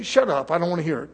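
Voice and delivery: impatient parent. Retold or imitated. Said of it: "first you say".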